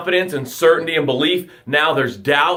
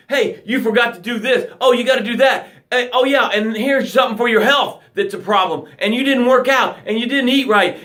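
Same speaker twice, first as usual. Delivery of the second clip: nagging life; 4 semitones higher than usual. Pretend. Life handing you stuff.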